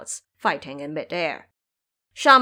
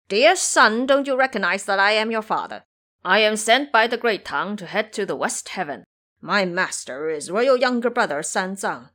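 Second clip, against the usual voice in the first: taunting threat; 3 semitones higher, 4 dB louder than usual. Acted. Ba Jie taunts and threatens monster.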